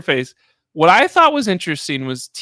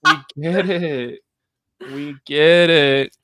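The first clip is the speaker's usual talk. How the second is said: exasperated; 2 semitones lower, slower than usual. Retold or imitated. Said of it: "I was like".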